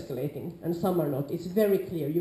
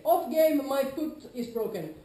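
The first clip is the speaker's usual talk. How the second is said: urgent call; 6 semitones higher, slower than usual. Shown as a demonstration. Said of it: "So if I say".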